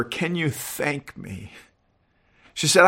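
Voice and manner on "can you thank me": barely voiced, slow and hushed; soft whisper. A narrator's reading. God's Spirit whispers to Helen, very soft and slow. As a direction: breathe the question almost silently. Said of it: "the Spirit of God seemed to whisper".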